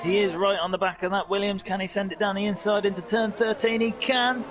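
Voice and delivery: motorsport commentator. Real, not acted. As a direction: call the overtake as it happens. Live overtake call, rising excitement.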